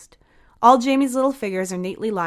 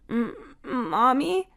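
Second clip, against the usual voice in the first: put-on high, slow, hopeful little-boy voice; a timid child calling for his mom; small boy squeak; 6 semitones higher, much slower than usual. A narrator's reading. Jamie hoping his mom is at the door, a high timid squeak. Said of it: "Jamie's voice squeaks".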